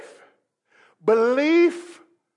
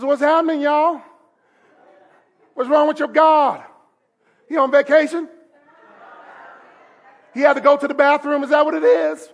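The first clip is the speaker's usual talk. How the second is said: laid-back taunting; 3 semitones higher than usual. Retold or imitated. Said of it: "Elijah's so laid back".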